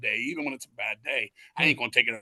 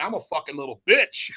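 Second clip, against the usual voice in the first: laughing; 2 semitones higher than usual. Real, not acted. Mocking himself after crying.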